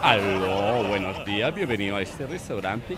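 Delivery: fancy waiter. Acted. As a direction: welcome guests like a snooty maître d'. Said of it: "es un restaurante donde el solo saludo".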